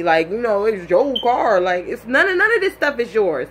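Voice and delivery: high, heated, scolding rant; angry rant. Retold or imitated. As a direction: tear into him over the phone. Angry rant at boyfriend on phone.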